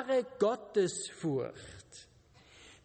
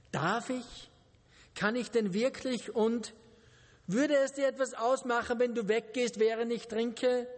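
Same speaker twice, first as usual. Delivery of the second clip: anxious; 3 semitones higher than usual. Acted. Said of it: "fragte Jill ängstlich".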